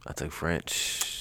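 slow proud little aside; mock-smug murmur; slow, quiet, knowing. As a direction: drop the voice and drawl it out. Repeats the line, slowed.

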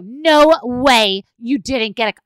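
loud, stretched-out insistence; emphatic disbelief. Retold or imitated. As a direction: insist like a gushing mom. Acted gushing over daughter's outfit.

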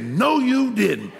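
high slow no you didn't; mama in disbelief. Retold or imitated. Mama catching son with new car, disbelieving. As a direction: drag out the disbelief.

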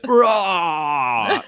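long, loud war cry; battle roar. Acted. Barrow raises his spear to back the leader, long battle roar. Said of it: "Barrow raises his spear and goes".

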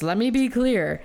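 a light politician's impression; Joe Biden voice. Shown as a demonstration. Host playfully clarifying her point to her co-host, lightly voiced Joe Biden. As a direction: lightly put on a statesman's voice. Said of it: "let me use my, my, uh, Joe Biden voice".

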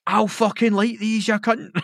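high, slow, hammed-up menace; slow mock-menacing nutter voice; mock threat. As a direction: threaten like a wild man. Firework guy threatens.

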